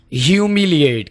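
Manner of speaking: HUMILIATE said slowly and carefully; "Humiliate" as hyu-mi-li-ate; pronunciation demo. Shown as a demonstration. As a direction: model "Humiliate" clearly for learners. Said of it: "कैसे बोलना है?".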